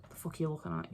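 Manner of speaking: badly faked, muted side-eye voice; side-eye impression. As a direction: quietly imitate someone giving a side eye. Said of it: "That was a terrible impression of, like, a side eye".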